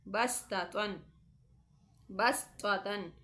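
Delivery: बस्ततन with a thin, whistling s; बस्ततन with a hissing s; thin whistling seen. Shown as a demonstration. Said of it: "सीटी की आवाज़ निकाल कर".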